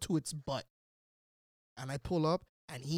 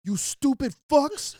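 angry slow growl; 8 semitones higher, 10 dB louder, slower than usual. Retold or imitated. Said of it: "He's like".

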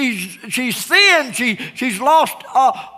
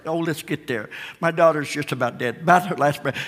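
softer, lower anxious murmur; bated breath; 4 semitones lower, 5 dB quieter, faster than usual. Acted. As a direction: hold the breath and hurry under it. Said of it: "Jairus' bated breath".

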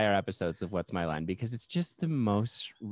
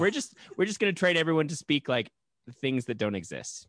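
mock studio executive; 4 semitones higher than usual. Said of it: "They were like".

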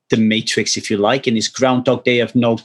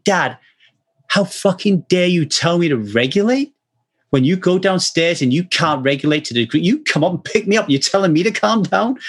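put-on higher, indignant child scolding her dad; daughter's rebuke; 4 semitones higher than usual. Father imitating his daughter scolding him, pitched higher. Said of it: "like, saying".

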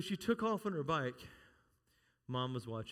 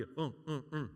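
mock effort grunts; 2 semitones lower, 4 dB quieter than usual. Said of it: "like that".

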